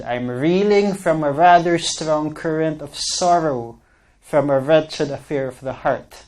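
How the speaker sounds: reeling, rather, wretched said with a w for r; says w for r. Shown as a demonstration. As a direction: read it out with every R made into a W. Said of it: "I'm reading this ridiculously".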